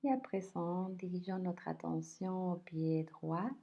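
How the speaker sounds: unhurried body scan voice, leaving space between phrases; guided meditation. Acted. Teacher guiding listeners through a body scan, calm guided meditation.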